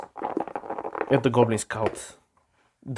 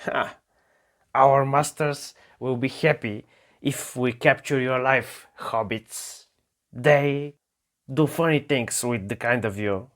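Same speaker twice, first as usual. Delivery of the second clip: goblin threat; 2 semitones higher, 3 dB louder than usual. Acted. Goblin gloating about capturing the hobbits, lightly sneering.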